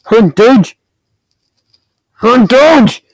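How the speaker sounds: heated gamer needling; angry taunt. Real, not acted. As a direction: demand an answer from a rival player. Berating player who ate them.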